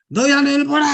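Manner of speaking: loud preacher's cry; shouted proclamation. Shown as a demonstration. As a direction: cry it out boldly. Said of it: "소리 질러도 괜찮아요".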